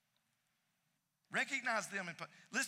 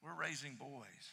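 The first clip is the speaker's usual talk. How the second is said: soft repetition; 3 semitones lower, 7 dB quieter than usual. Real, not acted. Pastor echoing the dad's words softly to congregation. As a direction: let it land quietly. Repeats quote softly for effect.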